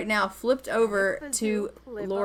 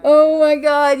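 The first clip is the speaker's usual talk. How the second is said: excited shriek; 4 semitones higher, 13 dB louder than usual. Real, not acted. Streamer reacts to woohoo.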